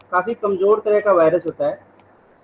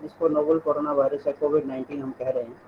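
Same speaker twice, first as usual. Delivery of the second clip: barely audible; 4 semitones lower, 5 dB quieter than usual. Real, not acted. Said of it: "sir, आपकी आवाज कम आ रही है".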